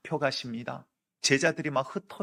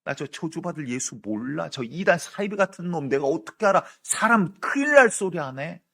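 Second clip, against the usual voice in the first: cursing denial; 3 semitones higher, 5 dB louder than usual. Retold or imitated. Peter cursing to the crowd that he never knew Jesus. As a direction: spit out the denial and damn him. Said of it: "저주하여 이르되"라고".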